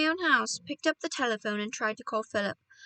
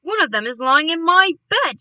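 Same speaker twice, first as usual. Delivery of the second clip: loud, high-pitched protest; indignant yell; 4 semitones higher, 10 dB louder than usual. A narrator's reading. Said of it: "yelled William".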